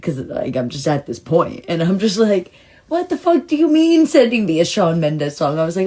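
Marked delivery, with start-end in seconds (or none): 2.9-5.6 high-pitched, exasperated mock shout; retold shouting. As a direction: act out yelling at the universe in disbelief. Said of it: "literally just shouting aloud".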